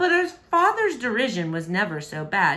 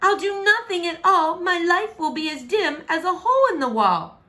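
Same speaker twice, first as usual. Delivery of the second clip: gloomy princess; 10 semitones higher, 4 dB louder than usual. Acted. Princess gloomy, loud and high.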